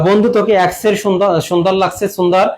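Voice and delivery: "সুন্দর" as sundar, with s instead of sh; mispronunciation demo. Retold or imitated. Teacher imitates people complimenting a friend, mispronouncing "সুন্দর" as sundar. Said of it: "সুন্দর এইভাবে উচ্চারণ হবে না".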